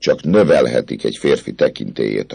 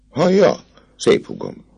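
startled call. Acted. Captain diverts attention.

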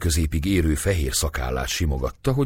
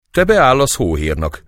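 high, loud screech; 8 semitones higher, 7 dB louder than usual. A narrator's reading. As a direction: screech the insult. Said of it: "rikácsolt Cecei". (rikácsolva, hangosan)

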